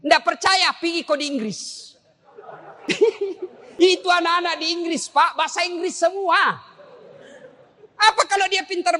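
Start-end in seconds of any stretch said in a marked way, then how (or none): 2.9-3.5 short high laugh. Real, not acted. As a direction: burst out laughing. Preacher laughs at own joke. (tertawa singkat)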